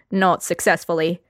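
normal talking voice

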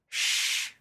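hush. A narrator's reading. Mother hushing worried daughter.

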